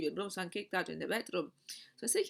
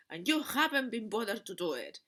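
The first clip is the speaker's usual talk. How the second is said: grumpy accusation; 3 semitones higher, 4 dB louder than usual. Retold or imitated. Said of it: "my grumpy sides".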